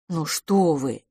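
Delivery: plain reading voice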